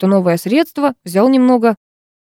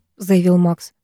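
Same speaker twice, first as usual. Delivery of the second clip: plain reading voice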